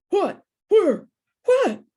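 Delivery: high, loud startled shout. Acted. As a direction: jolt awake and yell in confusion. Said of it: "Dad shouted".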